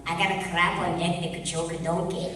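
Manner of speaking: best attempt at a Scottish accent; comic movie line, Scottish accent. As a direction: quote it in a put-on Scottish accent. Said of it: "That's my best Scottish accent".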